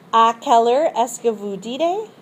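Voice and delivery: À quelle heure est-ce que vous dînez? rising on dînez; rising question. Shown as a demonstration. Teacher modelling a French question with a rise. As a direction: let the voice climb to dînez. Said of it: "So we have".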